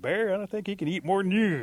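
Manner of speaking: high, loud exclamation; calling out. Acted. An animal remarks to Bear on the greedy guest, exclaiming. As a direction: call out to the big guy.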